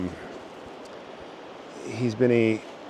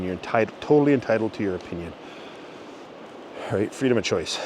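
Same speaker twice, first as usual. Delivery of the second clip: breathless from hiking; out of breath; 3 dB quieter, faster than usual. Real, not acted. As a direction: talk while winded. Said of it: "sorry, I'm out of breath".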